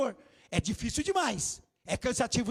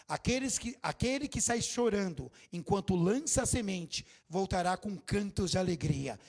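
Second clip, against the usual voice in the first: scripture reading; 4 semitones lower than usual. Acted. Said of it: "Olha o que diz o Salmo".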